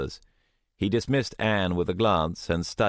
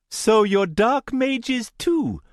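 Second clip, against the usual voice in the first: much higher, slow accusing voice; accusing young man; 5 dB louder, slower than usual. Acted. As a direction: spit out the accusation. Indian boy accuses.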